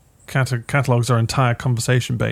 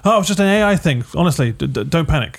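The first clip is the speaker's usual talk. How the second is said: higher, louder, flustered retraction; a president hastily walking it back; hammed-up nervous reassurance; mock president backtracking; 4 semitones higher, 4 dB louder than usual. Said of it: "goes on legitimate and goes".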